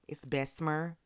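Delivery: "Bessemer" said in full, all syllables; proper pronunciation. Shown as a demonstration. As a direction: say "Bessemer" carefully, as spelled. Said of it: "do I say it like that".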